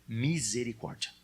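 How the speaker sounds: misericórdia drawn out slowly, every syllable stretched. Shown as a demonstration. Pastor has the congregation repeat misericórdia, slowly and drawn out. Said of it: "fala comigo devagarinho".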